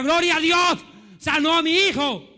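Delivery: high, joyful cry of praise; jubilant shout. Acted. Parent praising God for a healed child, jubilant shout. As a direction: shout thanks for a miracle. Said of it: "pues grita".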